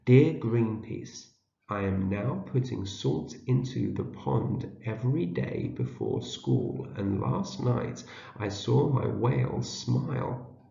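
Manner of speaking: measured, joined-up read-aloud; reading together. Shown as a demonstration. Teacher rereads a long sentence with learners, careful read-aloud. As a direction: read the whole sentence slowly and clearly. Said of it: "Read it together again".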